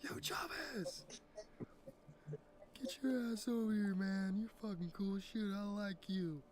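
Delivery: squeezed, very high-pitched calling; high put-on voice. Beckoning buddy Chavez over, very high put-on voice. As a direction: call out in a thin, high comic voice.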